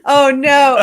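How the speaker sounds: loud, high cry of amused dread; real dismay. Real, not acted. To husband who wants the trash story, amused dismay. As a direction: groan it out loudly, half laughing.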